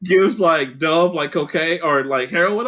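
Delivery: ordinary delivery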